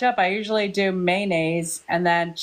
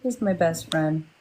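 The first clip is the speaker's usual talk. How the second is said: mocking imitation; 5 semitones lower, slower than usual. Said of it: "I was mocking you".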